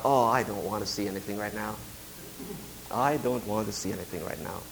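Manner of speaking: very low, soft inward grumble; retold thought, sunk low and quiet; low reluctant mumble. Despondent preacher to himself after wife calls, low and reluctant.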